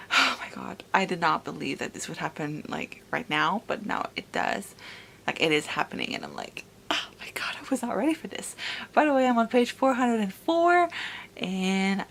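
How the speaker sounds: soft but eager, held-down thrill; hushed excitement. Acted. Vlogger quietly gushing about the reunion, hushed. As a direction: contain the excitement to a hush.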